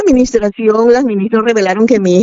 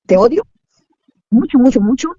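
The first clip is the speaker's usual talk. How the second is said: hateful retort; 4 semitones higher than usual. Retold or imitated. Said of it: "me volteó a ver con mucho odio".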